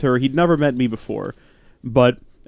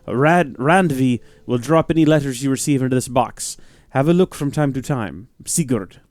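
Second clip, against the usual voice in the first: faint Norse accent on the letter; just a tinge of Norse accent, no more; very light accent. Shown as a demonstration. Reading Sigurd's letter aloud, a faint Norse accent. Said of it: "I did a very light accent on that".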